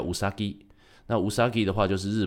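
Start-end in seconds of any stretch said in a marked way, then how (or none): 0.0-0.6 Usagi said as Japanese u-sa-gi; Japanese pronunciation. Shown as a demonstration. Host explains how the heroine's surname sounds, Japanese pronunciation. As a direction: pronounce Usagi in three Japanese syllables. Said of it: "宇佐木的发音叫".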